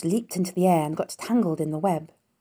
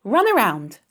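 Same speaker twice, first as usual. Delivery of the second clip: loud, higher command; 5 semitones higher, 7 dB louder than usual. A narrator's reading. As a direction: order it like a coach. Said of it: "commanded Charlotte".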